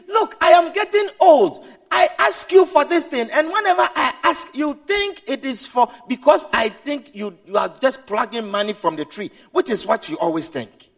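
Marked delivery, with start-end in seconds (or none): 0.1-9.3 complaining father. Acted. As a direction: plead then sulk. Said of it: "He says".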